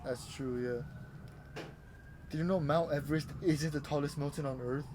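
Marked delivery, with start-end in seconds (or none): 2.3-4.8 hyped clickbait teaser voice; clickbait video narrator. Acted. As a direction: sell the fact like a clickbait video. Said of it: "Are you talking like the fucking clickbait voice?".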